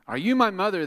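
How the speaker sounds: high, loud little bird asking; baby bird voice. Acted. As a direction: squeak it out like a lost baby bird.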